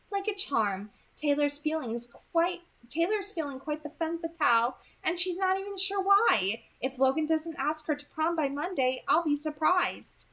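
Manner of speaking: put-on a sly, pleased girl's report; Edith's voice. Edith telling Beau the plan worked, high and amused.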